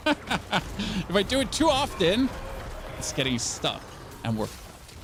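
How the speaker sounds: slow, overdone German accent; fake German accent. Shown as a demonstration. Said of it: "that was really fake".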